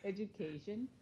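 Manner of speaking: a laughing imitation of an outraged Korean mom; mother's mock outrage, laughing. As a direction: play her exasperated mother through laughter. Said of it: "she'll be like".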